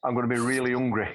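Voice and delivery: laughing through a remembered worry; half-laughing inner voice; laughing thought. Retold or imitated. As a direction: giggle out the quoted thought. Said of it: "I remember it distinctly thinking".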